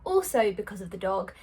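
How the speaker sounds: breathless from running around; slightly winded, quick breaths. Real, not acted. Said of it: "I'm a little bit out of breath".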